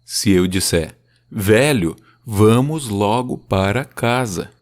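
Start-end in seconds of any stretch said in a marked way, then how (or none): 1.3-4.5 "Velho, vamos logo para casa" slow, strong then weak beats; slow trochaic reading; trochaic demo. Shown as a demonstration. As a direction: lean on each first syllable. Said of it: "é um forte e daí um fraco".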